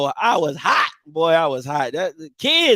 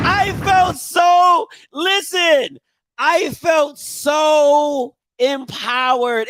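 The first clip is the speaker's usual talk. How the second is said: empowered; 3 semitones higher, much slower than usual. Real, not acted. Proud, laughing, slowed.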